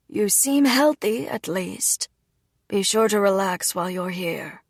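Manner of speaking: quietly caring father; softened father. Acted. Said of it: "looked at me with a soft expression".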